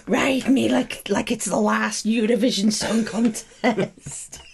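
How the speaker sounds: slow, laughing dirty talk; slow mock lust. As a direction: ham up the pleading.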